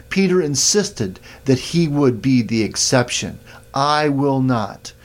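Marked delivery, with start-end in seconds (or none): 3.7-4.9 slightly drawn-out stress on I; emphatic I. Shown as a demonstration. Preacher quoting Peter's insistence, emphatic slow I. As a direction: lean on the word I, slowly. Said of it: "That's an emphatic I used there".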